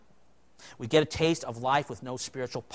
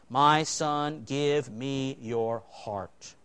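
tender plea; 3 semitones lower, 3 dB quieter, much slower than usual. Acted. Quoting God's tender plea.

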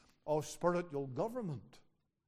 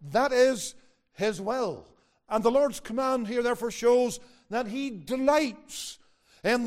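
raised, emphatic sermon delivery; forceful preaching; 5 semitones higher, 8 dB louder than usual. Real, not acted. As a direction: drive it home to the congregation.

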